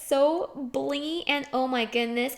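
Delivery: gushing flattery. Acted. Gushing compliments to the parents.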